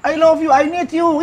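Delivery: high, slow mock yell of adoration; menirukan teriakan. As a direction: stretch each phrase out like a shouting admirer. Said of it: "Teriak-teriak". (teriakan cinta tiruan yang melengking pelan-pelan)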